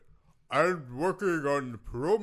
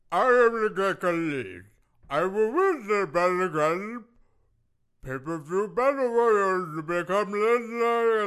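wrestling promo; 3 semitones higher than usual. Acted. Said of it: "did you just count down and then do a promo".

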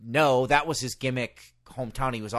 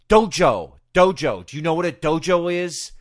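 louder, insistent mock-angry repeat; pissed Taz; 3 semitones higher, 7 dB louder than usual. Wrestler snapping at the nervous announcer, mock irritated. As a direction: hammer the word Dojo like an annoyed star. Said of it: "And he gets pissed".

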